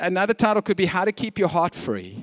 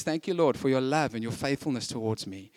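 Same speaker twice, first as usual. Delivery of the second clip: hushed prayer; 6 semitones lower, 8 dB quieter than usual. Acted. Donkey prays again.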